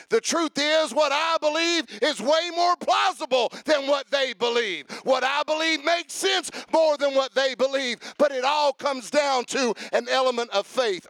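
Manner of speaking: preacher building to a shout on faith; full-force preaching. Acted. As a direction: drive the point home to the congregation.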